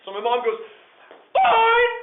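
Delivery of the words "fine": loud, high snapped word; fed-up mother snapping before leaving; curt angry fine. Retold or imitated. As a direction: storm off with one word. Mother storms off.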